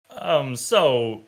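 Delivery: Walken-ish hint. Pretend. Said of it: "where he drags the word out".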